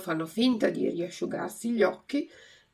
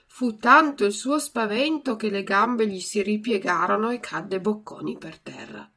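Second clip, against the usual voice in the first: plain reading voice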